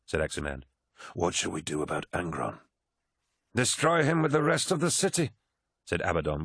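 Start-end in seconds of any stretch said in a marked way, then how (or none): 1.1-2.6 softer, subdued officer; measured Aximand. Acted. Aximand asks his War Master about Angron, subdued. 3.5-5.3 high, forceful captain's voice; hard-line Abaddon. Abaddon urges Horus to destroy Angron, forceful.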